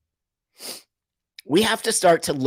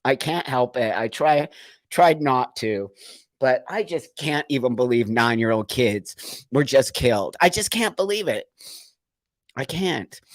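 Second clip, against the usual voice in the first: real crying; 2 semitones lower than usual. Real, not acted. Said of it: "I'm sorry that I'm crying".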